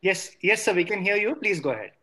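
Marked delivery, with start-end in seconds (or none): none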